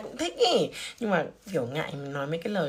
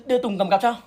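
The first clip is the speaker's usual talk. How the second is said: said again louder, name swapped in; louder correction; 4 semitones higher, 7 dB louder than usual. Acted. Boy offers to carry Ly's bag, louder correction. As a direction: correct yourself with a louder push. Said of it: "À".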